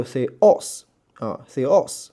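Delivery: "say os" with the weight on "os"; stress on os. Shown as a demonstration. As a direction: lean firmly on the final "os" in "say os". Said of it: "这一个重音". (“say os”重音放在“os”上)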